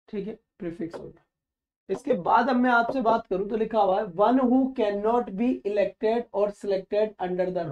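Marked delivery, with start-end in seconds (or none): 4.1-7.7 each word spelled out very slowly; slow dictation. Shown as a demonstration. Teacher dictating a definition to students, very slow and deliberate. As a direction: read it slowly so students can write it down.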